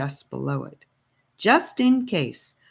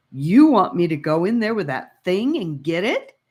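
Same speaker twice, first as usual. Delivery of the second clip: horrified; 3 semitones higher, 5 dB louder than usual. Acted. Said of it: "looking horrified".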